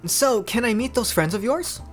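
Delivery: high, eager question; curious Noi. Acted. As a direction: pitch it up, curious.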